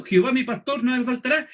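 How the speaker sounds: preacher proclaiming God's power, ending on a rise; forceful, proclaiming. Shown as a demonstration. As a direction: point the verse upward to God with conviction. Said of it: "Le estoy dando fuerza a mi idea".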